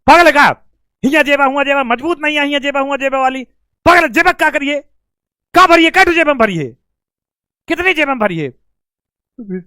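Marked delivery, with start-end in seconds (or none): 0.1-8.5 a father's mild mock scolding, a bit higher; a father's exasperated retold rebuke. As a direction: tell the boy off half-seriously. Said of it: "अब पापा ने डांटा".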